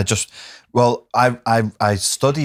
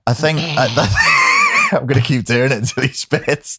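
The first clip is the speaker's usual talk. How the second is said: mock Scouse accent; 4 semitones higher than usual. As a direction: ham up a Scouse lad through a mouthful. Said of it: "marble in your mouth".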